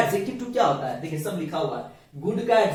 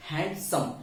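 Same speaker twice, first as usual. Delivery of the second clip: हैंडसम in two separate softer beats; two syllables; 5 dB quieter, slower than usual. Shown as a demonstration. Teacher confirming the syllable count, हैंडसम split in two. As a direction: break हैंडसम between hand and some. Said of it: "दो syllable है".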